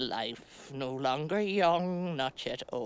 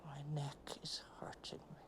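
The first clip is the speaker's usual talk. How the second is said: breathy whisper of pain; whispered complaint; 13 dB quieter, faster than usual. Real, not acted. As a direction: whisper it, barely voiced. The speaker complains about her neck.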